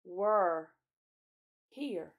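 drawn-out, weighty realization; slow accusation. A narrator's reading. Peter confronts Edmund about having been here, accusing. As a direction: spell it out slowly, word by word.

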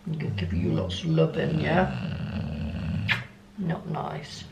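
cooing to the dog. Real, not acted. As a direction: whisper your love to the dog. Soft talk to the dog.

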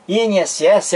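I N S S said as four letter names. Shown as a demonstration. Teacher contrasting an acronym with senac, spelled out. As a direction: spell I N S S, naming each letter. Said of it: "eu pronuncio cada letra".

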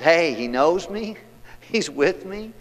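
high, slow, gleeful delight; a joyful man marvelling that God made him; excited psalmist. Acted. Preacher voicing the psalmist's joyful excitement. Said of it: "the psalmist is getting excited".

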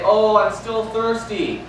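slow, sighing complaint; mock thirsty believer. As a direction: whine it lightly like a tired believer. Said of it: "the next day you say".

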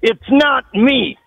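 angry denial. Real, not acted. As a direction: spell it out word by word, fed up. Accused man repeats his denial.

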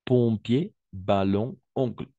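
"Pompier, ballon, oncle" with a nasal ON sound; nasal on demo. Shown as a demonstration. Teacher modelling nasal ON in "Pompier, ballon, oncle". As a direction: model the nasal ON in each word. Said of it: "On nasal".

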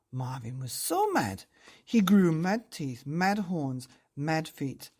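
put-on lively, sing-song storytelling voice for children; bedtime story narration. A narrator's reading. Narrator reading a picture book to children, lively and sing-song. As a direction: read it like tucking kids in.

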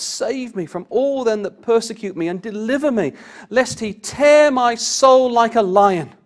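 loud, ringing high psalm reading, slowing on the lion line; fervent scripture reading. Acted. Preacher reading psalm to congregation, loud and fervent. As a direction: proclaim the psalm with full pulpit force.

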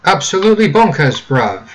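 mock London slang, ABSOLUTELY punched high and loud; British accent. Gamer hamming up British slang, mock British accent. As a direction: exclaim it like a cheeky British lad. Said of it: "talking like a freaking Brit".

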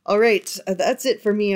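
hoarse, tired losing voice; strained voice from too many videos. Real, not acted. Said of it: "I'm losing my voice".

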